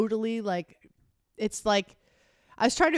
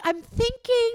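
imitating husband; 5 dB louder, slower than usual. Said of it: "You're like".

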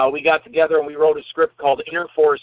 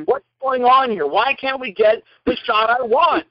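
higher, slow mock complaint; mock director tantrum; 6 semitones higher, slower than usual. Director to cameraman in staged row, mock exasperated. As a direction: act out a director fed up on set.

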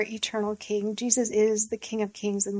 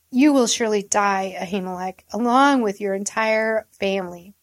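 a louder, hammed-up royal sentence of death; shouted; 4 dB louder than usual. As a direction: throw the death sentence out loud. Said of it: "the king shouted".

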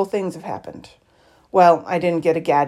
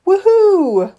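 high, loud cheering woohoo; excited shout; 13 semitones higher, 7 dB louder than usual. A narrator's reading. Freddie cheering at her new wheelchair, high loud shout. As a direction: cheer it out, much higher and louder. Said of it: "he shouted".

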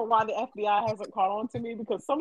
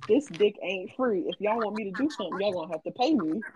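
firm, unbothered refusal. Retold or imitated. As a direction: lay down the terms flatly. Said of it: "and I quote".

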